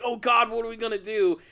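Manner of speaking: hammed-up parental panic; mock freak-out. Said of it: "freaking out".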